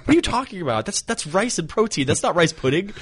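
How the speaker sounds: high-pitched mock exasperation; incredulous. Friend disputing Sammy's rice pudding, incredulous. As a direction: argue it in a high, disbelieving voice.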